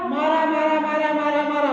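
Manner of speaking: syllables blurring into an even chant; nonstop repetition. Shown as a demonstration. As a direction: loop the word without a break. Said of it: "बाद में वो आवाज किसकी बन जाएगी".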